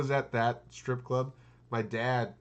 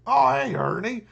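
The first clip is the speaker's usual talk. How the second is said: cheery greeting; 11 semitones higher, 6 dB louder than usual. Retold or imitated. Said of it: "And he's like".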